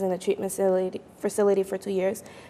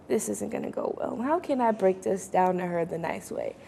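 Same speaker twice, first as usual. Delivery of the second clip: inner thought; 7 dB quieter than usual. Retold or imitated. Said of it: "And I was like".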